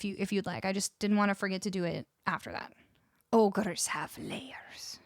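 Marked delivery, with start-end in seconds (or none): 3.3-5.0 very slow, softly whispered ogre; attempted ogre voice. Streamer quoting an ogre to viewers, attempted ogre voice. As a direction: draw it out as a hushed ogre. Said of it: "I cannot do a Scottish ogre accent".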